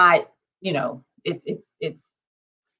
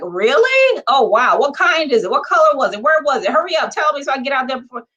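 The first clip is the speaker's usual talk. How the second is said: higher pitched rapid-fire eager questions; excited questions; 3 semitones higher, faster than usual. Retold or imitated. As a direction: pepper them with thrilled questions, hurrying. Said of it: "they get excited".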